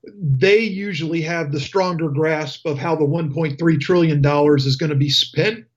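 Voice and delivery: talking through hiccups; hiccupping between words. Real, not acted. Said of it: "I've got the hiccups".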